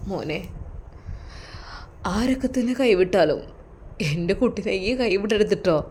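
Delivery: soft, earnest plea from a frail father; softly pleading father; pleading old father. Acted. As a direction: beg him gently not to let go.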